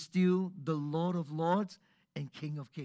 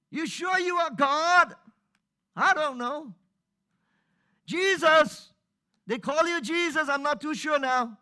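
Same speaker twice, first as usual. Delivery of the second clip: high, loud, incredulous complaint; doubting outcry; 9 semitones higher, 8 dB louder than usual. Retold or imitated. Preacher voicing doubters shouting at Jesus, high and loud. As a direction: hurl doubt upward, half-mocking. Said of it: "People cried out".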